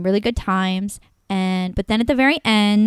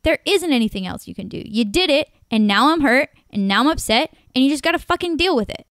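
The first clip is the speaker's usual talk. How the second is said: rising heated reply, louder and higher at the end; retold angry outburst; 5 semitones higher, 4 dB louder than usual. Woman retelling telling her date to deal with it, heated. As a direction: build the anger to the fucking deal with it. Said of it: "And I'm like".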